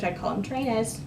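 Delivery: badly faked British accent; horrible British accent. American vlogger pretending to be British, bad British accent. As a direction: attempt a clumsy British "trainers". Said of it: "that's a horrible British accent".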